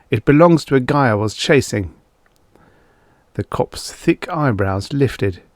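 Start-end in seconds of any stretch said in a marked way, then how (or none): 0.1-1.9 hurried explanation. Acted.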